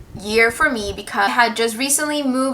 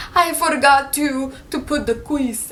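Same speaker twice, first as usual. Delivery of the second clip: put-on higher, slow Asian-accented confession; mock apologetic Asian accent; 3 semitones higher, slower than usual. Teacher confessing her mistake, imitated Asian accent. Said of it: "I'm so sorry".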